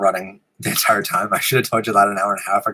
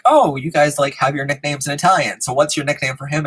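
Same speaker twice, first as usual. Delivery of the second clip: intrigued family; 4 semitones higher than usual. Retold or imitated. Imitates intrigued family at dinner.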